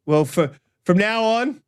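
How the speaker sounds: a lightly done mock Scottish accent; bad Scottish accent. Streamer renaming a viewer Matt, in mock Scottish accent. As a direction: ham a Scottish accent, slowed down. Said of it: "I think that was Scottish as well".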